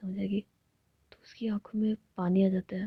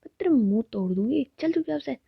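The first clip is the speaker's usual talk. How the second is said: angry scolding; 4 dB louder than usual. Acted.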